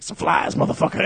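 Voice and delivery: catchphrase parody, punched on the last word; mock tough-guy one-liner; Dokes. Host retelling the Vine guy with bugs, lightly imitating Dokes. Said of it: "does the Dokes thing".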